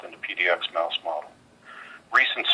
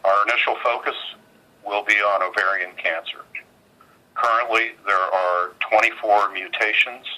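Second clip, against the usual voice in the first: on speakerphone. Real, not acted. Earnings conference call over phone.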